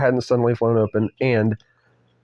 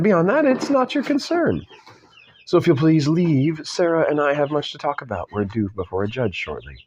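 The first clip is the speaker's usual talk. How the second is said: put-on British accent; 2 semitones higher than usual. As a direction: dismiss them politely in a put-on British voice. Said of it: "said the British man".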